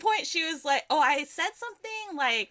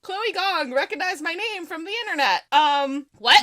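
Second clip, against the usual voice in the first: high, loud starstruck babble; re-enacted incredulous freak-out; overwhelmed disbelief; 7 semitones higher, 7 dB louder than usual. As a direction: reel in amazement, voice pitched up. Re-enacts being overwhelmed at recognition.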